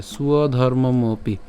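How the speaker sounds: স্বধর্মমপি slowly as one "suodhormomopi"; slow teaching model of স্বধর্মমপি as one word; joined pronunciation. Shown as a demonstration. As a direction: run স্বধর্মমপি together, unhurried, with u-glide. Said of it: "একসাথে".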